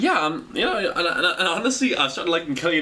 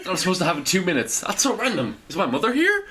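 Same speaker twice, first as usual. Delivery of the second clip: laughing, higher, baffled questions; confused surprise; 5 semitones higher than usual. Retold or imitated. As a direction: act startled and puzzled. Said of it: "I hear it and I go".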